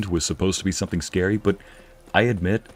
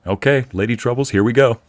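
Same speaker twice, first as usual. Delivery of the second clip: imitating innkeep; 3 semitones higher, 4 dB louder than usual. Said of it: "Innkeep just goes".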